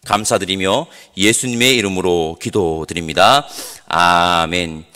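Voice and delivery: pastor's prayer to God; closing prayer. Real, not acted. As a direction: lead the congregation in earnest prayer.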